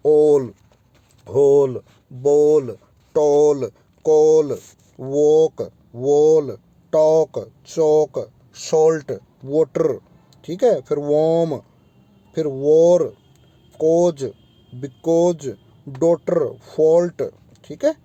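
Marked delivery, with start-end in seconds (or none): 0.1-10.0 each word like ऑल and कॉल said with a long drawn aw vowel, louder; teacher drilling ऑल, कॉल, वॉक with a long louder aw; long aw demo. Shown as a demonstration. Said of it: "ये longer होता है". 12.4-17.2 teacher drilling वॉर and कॉज with a long aw; long aw demo. Shown as a demonstration. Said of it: "ये longer होता है".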